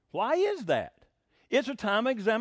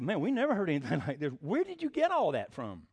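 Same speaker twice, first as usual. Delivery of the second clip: amazed doctors laughing; 4 semitones lower than usual. Retold or imitated. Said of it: "And they said".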